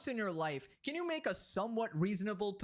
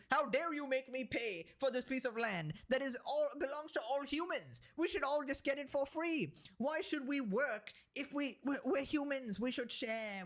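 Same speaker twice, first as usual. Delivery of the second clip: higher-pitched mocking protest; mock indignation; 3 semitones higher than usual. Mocking a freeloader refusing to pay rent, indignant. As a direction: play up the righteous outrage.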